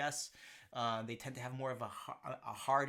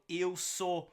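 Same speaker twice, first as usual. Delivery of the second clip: 1 slow demo; 4 semitones higher, 3 dB louder, slower than usual. Shown as a demonstration. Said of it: "model phrase".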